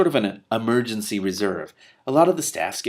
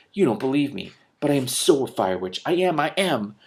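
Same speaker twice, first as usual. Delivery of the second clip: shouting; 6 semitones higher, 4 dB louder than usual. Acted. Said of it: "she was shouting".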